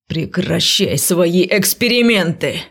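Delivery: slow growled warning. A narrator's reading. Man growling at her to stop experimenting. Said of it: "прорычал он".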